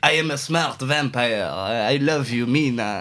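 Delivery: slow, drawn-out put-on French accent. Contrasting the film with usual vampire portrayals, doing a French-accent Count Dracula voice. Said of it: "met een Frans accent spreekt".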